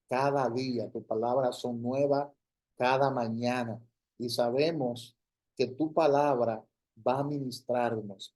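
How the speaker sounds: earnest public prayer in short, cadenced phrases; fervent prayer. Real, not acted. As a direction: pray aloud, building emphasis phrase by phrase. Leads an opening prayer.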